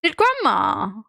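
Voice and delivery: high, indignant telling-off, drawn out at the end; mock scolding. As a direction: playfully take a parent to task. Retold telling-off of dad.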